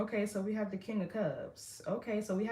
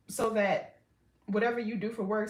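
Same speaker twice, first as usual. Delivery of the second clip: speaking through a burp; words pushed out around a burp. Real, not acted. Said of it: "I don't mean to keep burping".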